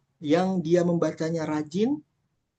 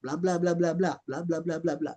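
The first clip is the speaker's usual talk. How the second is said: long rambling answer. Shown as a demonstration. Teacher demonstrates a long exam answer, rambling blah-blahs. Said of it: "harus panjang jawabannya".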